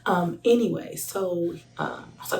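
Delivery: ordinary delivery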